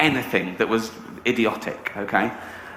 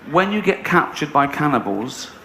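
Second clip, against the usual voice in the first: laughing. Real, not acted. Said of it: "repeat of line 87 while laughing".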